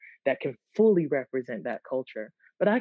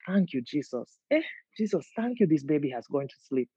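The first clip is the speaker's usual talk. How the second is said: put-on Gambian accent voice. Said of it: "videos in that voice".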